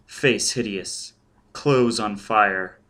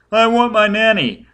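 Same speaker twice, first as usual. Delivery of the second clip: put-on high, loud child wail; shrieking child; 11 semitones higher, 8 dB louder than usual. A narrator's reading. Scared child drowning out Foyle's demand, shrieking. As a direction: wail louder for nanny like a panicked boy. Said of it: "The child was shrieking and shaking".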